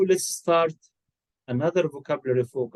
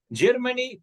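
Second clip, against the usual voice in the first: questioning Germany; 10 semitones higher than usual. Shown as a demonstration. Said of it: "country or nationality?".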